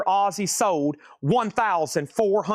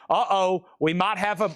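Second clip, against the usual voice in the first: excited alarm; 4 semitones higher than usual. Real, not acted. Excited alarm over big bid.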